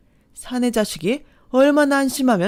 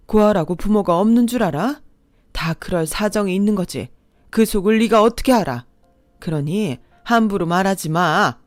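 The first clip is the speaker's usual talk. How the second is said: fierce protective anger; 3 dB louder than usual. Acted. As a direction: defend her children, fierce. Mother defends her daughter.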